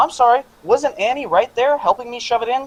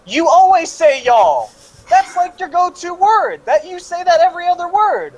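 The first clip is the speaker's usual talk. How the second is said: mocking tease; 10 semitones higher than usual. Real, not acted. Teasing a friend's speech habit.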